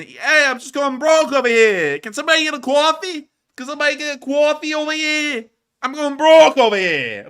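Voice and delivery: high, loud whiny begging; mock desperate plea. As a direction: beg dramatically for coffee.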